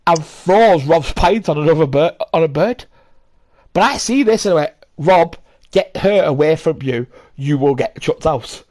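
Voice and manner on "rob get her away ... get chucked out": slow, emphatic warning to a mate; retold firm warning. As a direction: spell out the warning, word by word. Retold warning to his friend.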